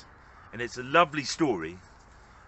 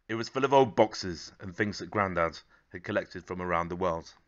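story narration. A narrator's reading. Reads a picture book aloud.

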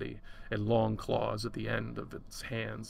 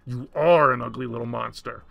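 loud, emphatic insult without raised pitch; mental shout; 8 dB louder than usual. A narrator's reading. Woman shouts at the monster in her mind, loud and forceful. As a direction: hit it hard, leaning loudly on ARE. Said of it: "I shouted in my mind's loudest voice".

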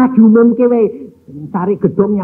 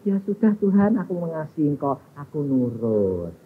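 tearful surrender, retold; 5 semitones lower, 9 dB quieter than usual. Crying young woman yielding to God, soft mock-tearful submission. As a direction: give in quietly, imitating tearful submission. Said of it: "Anak perempuan ini nangis lagi".

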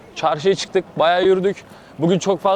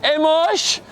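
laughing; 8 semitones higher, much slower than usual. Real, not acted. Host laughs at suffering guest.

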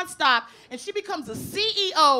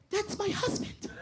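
breathless awe; 4 semitones higher, 8 dB quieter, slower than usual. Retold or imitated. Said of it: "she goes".

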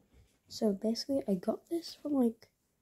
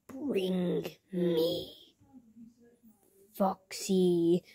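creepy whisper; much slower than usual. Acted. Creepy villain line whispered.

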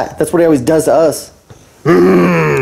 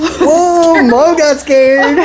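surprised; 13 semitones higher, 3 dB louder, much slower than usual. Real, not acted. Reacting to scare.

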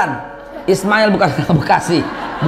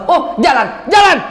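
mock shout; 5 semitones higher than usual. Hajar sends Ibrahim off.

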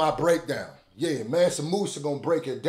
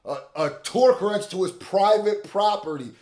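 hyped repeat; 6 semitones higher, 5 dB louder than usual. Real, not acted. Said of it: "Will catch a what".

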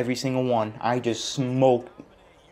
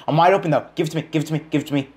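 higher and louder, urgent calls; shouting for the ball; 5 semitones higher, 5 dB louder, much faster than usual. Real, not acted. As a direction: demand the pass loudly. Yelling for the ball in game.

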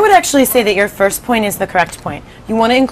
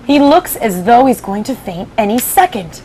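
centipede voice; 3 semitones higher than usual. Acted. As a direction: remark on him like the centipede. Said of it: "the centipede said".

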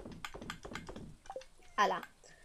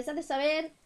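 light high crier call; town crier; 4 semitones higher than usual. Retold or imitated. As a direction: herald it. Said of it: "era el pregonero real".

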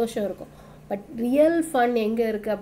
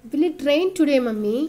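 a lightly voiced child asking, pitch higher; a small boy hoping for rain, raised pitch; eager child Nalan; 5 semitones higher, 4 dB louder than usual. Teacher reading as the boy Nalan, a light eager child voice.

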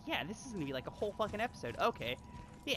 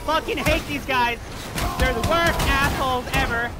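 angry rant; 5 dB louder than usual. Real, not acted. Raging at enemies in combat.

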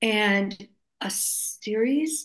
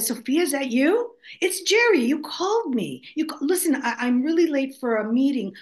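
quoting a caller; 4 semitones higher, 4 dB louder than usual. Retold or imitated. Retold phone call with Jerry.

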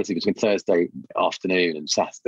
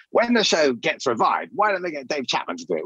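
imitating online fans; 8 semitones higher than usual. Online fans quoted, high far voice.

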